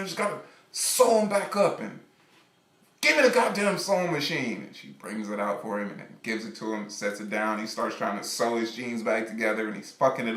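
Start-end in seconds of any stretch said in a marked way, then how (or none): 0.0-4.6 higher, petulant demanding voice; whiny boyfriend rant. Acted. Boyfriend demands the sewing machine, whiny and higher. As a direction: push it like a sulky artist. The speaker keeps ranting.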